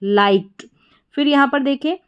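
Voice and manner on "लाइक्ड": लाइक्ड with the ending said as a sharp t; teacher models लाइक्ड with a t ending; clear t ending. Shown as a demonstration. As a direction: end लाइक्ड on a crisp t. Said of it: "लाइक्ड ट sound आ रहा है".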